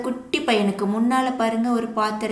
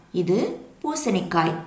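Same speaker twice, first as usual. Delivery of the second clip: slow naming; slower than usual. Shown as a demonstration. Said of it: "நான் அம்புக்குறி வச்சு காட்டுறேன்".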